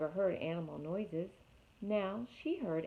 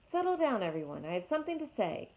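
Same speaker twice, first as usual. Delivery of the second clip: owl calling the crowd; 4 semitones higher, faster than usual. Acted. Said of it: "Swooper the owl hooted".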